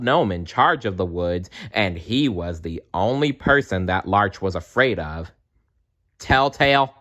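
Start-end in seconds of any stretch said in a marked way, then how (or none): 6.2-6.9 teasing call. Acted. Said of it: "called Larch".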